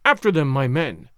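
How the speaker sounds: captain urging his men on, mild shout. Acted. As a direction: call the men after them, half-hearted. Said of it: "shouts the captain".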